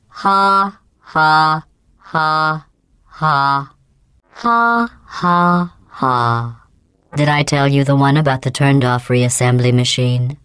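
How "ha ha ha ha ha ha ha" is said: spoken ha ha ha falling in pitch; dry robotic laugh, clearly insincere; fake laugh. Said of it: "let's all laugh".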